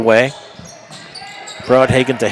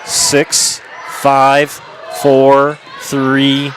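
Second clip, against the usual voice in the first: shouted countdown; much slower than usual. Real, not acted. Announcer counts down the half's final seconds, building shout. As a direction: call out the last seconds of the half.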